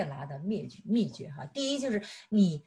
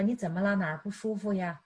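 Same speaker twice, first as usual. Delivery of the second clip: gently. Retold or imitated. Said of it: "你就温柔地说". (温柔地关心丈夫)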